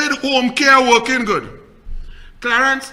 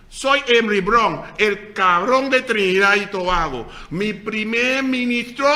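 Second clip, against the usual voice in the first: mock Spanish speech; 7 dB louder than usual. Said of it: "it's best you talk like this".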